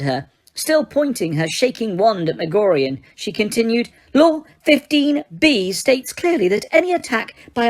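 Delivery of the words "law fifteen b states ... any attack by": much higher, tight and frightened Umbridge voice; high-pitched terrified. A narrator's reading. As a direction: squeak it out in panic, clinging to her titles. Umbridge's voice held on.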